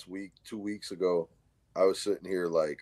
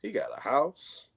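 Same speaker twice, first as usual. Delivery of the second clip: high-pitched mock admiration; impressed chick; 8 semitones higher than usual. Chick sizing up YouTuber cousin, mock impressed. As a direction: imitate a woman eyeing a catch, pitched up. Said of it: "Chick met him on there, and she's like".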